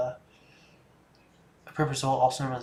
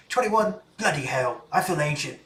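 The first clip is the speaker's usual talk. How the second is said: put-on New Zealand accent; 2 semitones higher, 3 dB louder than usual. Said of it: "say it like you probably said it".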